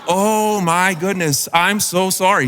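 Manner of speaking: apologize, mortified; a lightly voiced mortified apology; embarrassed apology. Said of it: "I was super embarrassed by that".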